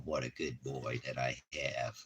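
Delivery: soft whisper to the dog; whispered praise. Real, not acted. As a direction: breathe the praise quietly.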